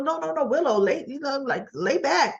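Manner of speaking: gently head her off, acting it out; urgent soothing protest. Man stopping a patient from sitting up, urgent protest.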